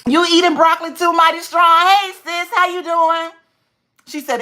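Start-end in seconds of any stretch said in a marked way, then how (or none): 0.1-3.3 cheerful greeting. Real, not acted. Greeting a viewer in chat.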